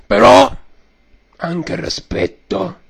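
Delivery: hoarse mock mafia boss; Godfather voice. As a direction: preach respect like a don. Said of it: "signor Padrino".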